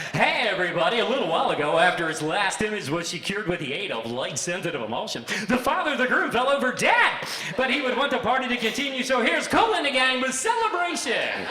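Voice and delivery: high, loud cheery announcer, laughing; mock DJ announcement. DJ announcing the groom's father's death to wedding guests, cheery announcer voice. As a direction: announce a death like a party hype. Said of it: "Can you imagine?".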